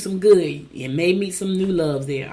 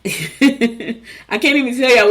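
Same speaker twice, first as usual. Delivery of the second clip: laughing as she talks; real laugh spilling into the words; amused; 5 semitones higher, 6 dB louder, much slower than usual. Real, not acted. Laughs over friend's funny story.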